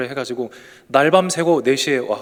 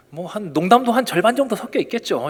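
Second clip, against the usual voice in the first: normal talking voice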